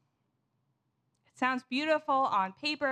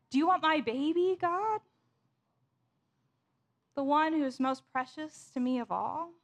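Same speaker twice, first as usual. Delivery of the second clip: acted desperate plea, starting high and urgent; dramatized desperate questioning, easing down after the first cry; desperation; 4 semitones higher than usual. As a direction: plead with God at wit's end. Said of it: "hear the desperation in the people's voices".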